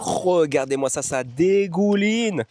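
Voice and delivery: slow mock-gourmet relish; ironic admiration. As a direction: relish it like a delicacy. Ironic praise of sausage. (admiration ironique)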